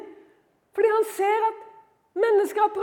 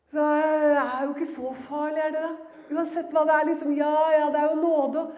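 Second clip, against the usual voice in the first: lower, offhand excuse; shrugging it off; 4 semitones lower than usual. Acted. Complacent believer excusing sin as grace, shrugging it off. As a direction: brush it away as no big deal.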